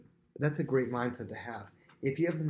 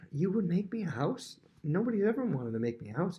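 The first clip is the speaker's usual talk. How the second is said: flattered; 7 semitones higher than usual. Retold or imitated. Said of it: "It's almost like flattered".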